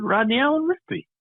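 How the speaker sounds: high, proud full-name announcement; proud child. Retold or imitated. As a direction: say your name like a proud kid.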